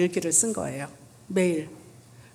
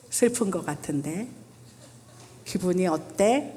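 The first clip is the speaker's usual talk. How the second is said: gentle question. Shown as a demonstration. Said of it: "이렇게 물어보면 아이가 얘기할 수 있는데".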